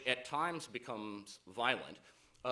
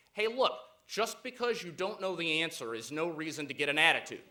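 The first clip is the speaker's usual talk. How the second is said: raised, louder voice building to the punchline; mock indignant yell; 5 semitones higher, 7 dB louder than usual. Beaten lion yelling after the elephant, mock indignant yell. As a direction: call after someone with playful indignation. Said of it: "yells out after the elephant".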